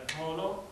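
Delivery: Xolo said with a Xhosa click; Xhosa click word. Shown as a demonstration. Showing the class a Xhosa click, careful click pronunciation. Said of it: "I'm sorry in Xhosa is".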